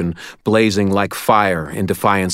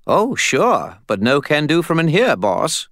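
higher put-on spirit voice; Bob's voice; 8 semitones higher than usual. A narrator's reading. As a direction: voice the cheeky skull spirit.

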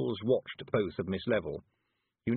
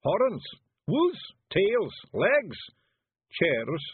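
high, loud little character voice; Daft Woolly; 12 semitones higher, 5 dB louder, much slower than usual. A narrator's reading. Feegle calling out a list of words, high and loud. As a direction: pipe up loudly, far above the narration. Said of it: "this was Daft Woolly".

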